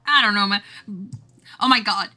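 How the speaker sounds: ordinary talk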